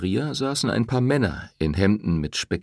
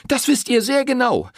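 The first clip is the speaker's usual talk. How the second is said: high, loud furious reproach; angry accusation; 5 dB louder than usual. A narrator's reading. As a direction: shame him to his face. Woman confronting the priest.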